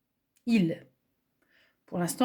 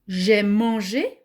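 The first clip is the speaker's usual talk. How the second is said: slow example word; 5 dB louder, much slower than usual. Shown as a demonstration. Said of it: "c'est un participe passé".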